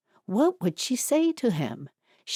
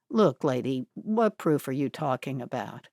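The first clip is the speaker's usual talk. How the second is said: lightly voiced wary young man; 5 semitones lower than usual. Young man confronted by Etty.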